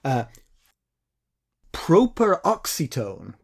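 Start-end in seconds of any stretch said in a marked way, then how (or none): 2.1-3.3 properoxetone said deliberately, beat on OX; stress on third-last syllable. Shown as a demonstration. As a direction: pronounce properoxetone carefully, stressing OX. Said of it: "say it the way I said it".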